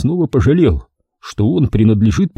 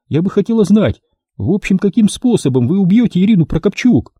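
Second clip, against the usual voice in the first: raised-pitch woman's voice; a lightly voiced scheming woman; voiced female client; 9 semitones higher than usual. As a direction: play a calculating client doubting the deal. Client presses for details.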